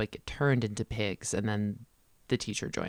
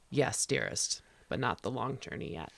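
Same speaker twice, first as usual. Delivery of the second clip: tender Aslan; 3 dB quieter than usual. Retold or imitated. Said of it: "And he says".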